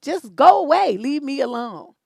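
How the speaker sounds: retold fed-up dismissal. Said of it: "I'm like".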